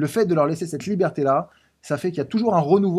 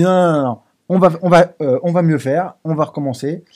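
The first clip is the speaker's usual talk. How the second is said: loud, insistent no, no, no; retold loud protest; 2 semitones higher, 7 dB louder than usual. Loud eager protest to his wife about the pizza. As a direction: protest loudly, reassuring her you'll do better.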